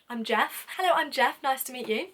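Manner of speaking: lightly mocked posh English introduction; posh manager. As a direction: introduce yourself with a touch of posh polish. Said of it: "he's very posh".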